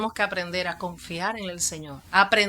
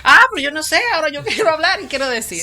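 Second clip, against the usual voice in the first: laughing reply; 7 semitones higher, 8 dB louder, faster than usual. Retold or imitated. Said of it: "Y él dice".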